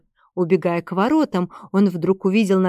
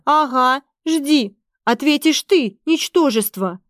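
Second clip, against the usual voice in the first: higher, scornful furious retort; 6 semitones higher than usual. A narrator's reading. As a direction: spit contempt at him. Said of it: "Эстер была в бешенстве".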